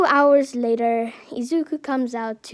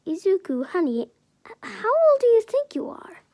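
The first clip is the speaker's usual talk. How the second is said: gentle whisper; 9 semitones higher, faster than usual. Acted. Inko gently asks.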